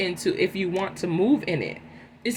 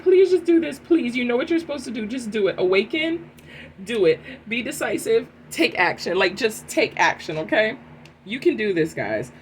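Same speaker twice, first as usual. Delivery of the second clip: God urging; 3 semitones higher than usual. Pretend. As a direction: plead as an eager God who wants you to act. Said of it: "God is like".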